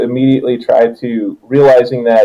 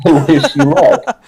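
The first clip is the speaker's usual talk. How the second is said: higher, rising, laughing wish; laughing good luck; 5 semitones higher than usual. Shown as a demonstration. GM repeating the blessing to the player, laughing. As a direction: say it again through a laugh. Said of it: "laughing retake".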